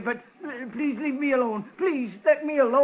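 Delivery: stammering, begging for mercy; terrified shopkeeper pleads with robber; frightened pleading. Acted. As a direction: beg the gunman to leave you be. Pawnbroker held at gunpoint.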